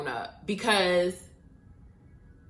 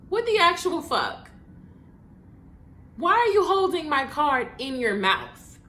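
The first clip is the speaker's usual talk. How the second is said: incredulous; 7 semitones higher, 3 dB louder than usual. Retold or imitated. Disbelief at bartender.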